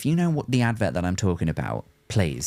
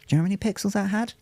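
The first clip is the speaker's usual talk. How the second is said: mock old-timer; 11 semitones higher, much faster than usual. Mock old-timer "back in my day.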